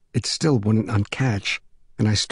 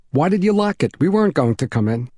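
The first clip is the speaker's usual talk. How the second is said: lightly voiced boy, pitched higher; puzzled young boy; 5 semitones higher, 3 dB louder than usual. Selden's boy questioning his locked-in friend, puzzled and higher.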